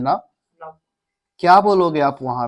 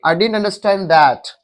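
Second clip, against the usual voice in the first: slow model sentence; 2 semitones higher, much slower than usual. Shown as a demonstration. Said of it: "मैं नहीं समझा".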